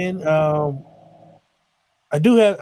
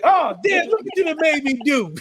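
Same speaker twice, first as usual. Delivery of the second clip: high mock woman's voice, raised well up; imitating the driver; 10 semitones higher than usual. Driver caught after a hit and run, mock high panic. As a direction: play the guilty driver blaming her kid. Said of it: "She's like".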